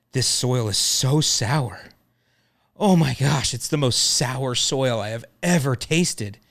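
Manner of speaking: slow, drawn-out hammed-up dismay; mock horror. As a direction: overplay the bad news to the customer. Telling customer her soil tastes sour.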